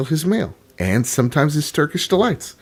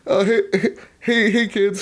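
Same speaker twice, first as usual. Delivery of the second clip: awkward fake dad; 9 semitones higher than usual. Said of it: "I'm like".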